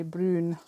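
"brune" with a long oo for brown; accented brown. Shown as a demonstration. Crafter showing viewers her crafting word, "brune" with a long oo. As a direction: say "brune", oo in place of ow. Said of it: "That's an accent".

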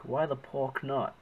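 slow, loud and playful; playful emphatic. Shown as a demonstration. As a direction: lean into the word pork with mock innocence. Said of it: "I said pork".

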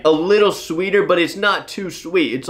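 talking while chewing cereal; eating flakes mid-sentence; mouth full chewing. Real, not acted. Seen 0: Blindfolded, hand brings flakes to mouth, seems chewing while talking.

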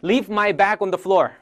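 very slow, word by word; slow model. Shown as a demonstration. Teacher modelling a new phrase slowly for the class. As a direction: spell it out slowly. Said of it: "repeat drill".

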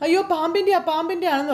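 high, startled exclaim; alarmed cry. Acted. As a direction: gasp it out in alarm. Panic over the bite.

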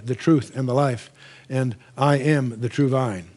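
measured preacher's proclamation; solemn declaration. Retold or imitated. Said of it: "He says".

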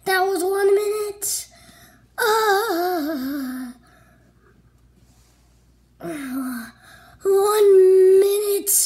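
loud pained crying through effort; strained crying. Real, not acted. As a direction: cry out while straining. Straining through push-ups crying.

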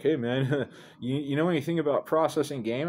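giggling friend. Retold or imitated. Friend on the phone asking about the goose, giggling. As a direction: laugh through the question like a guilty buddy.

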